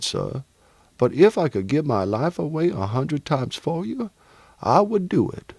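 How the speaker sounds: lightly voiced grateful servant, heartfelt; earnest thanks in a lightly put-on character voice. Servant thanks the man who rescued him, lightly voiced gratitude.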